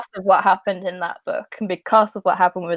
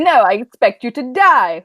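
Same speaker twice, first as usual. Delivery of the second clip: mock Bond villain; 3 semitones higher, 5 dB louder than usual. Quotes Bond villain, then mocks it.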